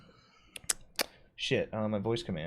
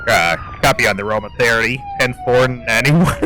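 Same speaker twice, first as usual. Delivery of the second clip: radio dispatcher; 5 dB louder than usual. Acted.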